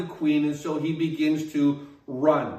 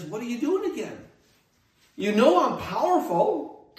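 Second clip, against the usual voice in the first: higher, pressing question from God; God's voice; 6 semitones higher than usual. Retold or imitated. Preacher voicing God questioning Elijah in the cave, higher and pressing. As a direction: let God ask it again, pointed.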